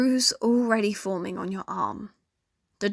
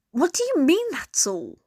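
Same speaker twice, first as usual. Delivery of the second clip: raised, concerned disbelief; 7 semitones higher than usual. A narrator's reading. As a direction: push back, worried not angry. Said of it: "Her voice raised slightly, but not in anger".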